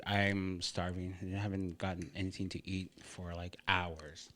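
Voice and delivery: talking through a mouthful; eating while talking; wolfing down food. Real, not acted. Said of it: "sorry for the food".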